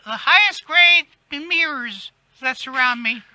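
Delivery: raspy voice with eagle shrieks; a hint of shrieking diva; Kathy Griffin. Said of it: "Kathy Griffin voice".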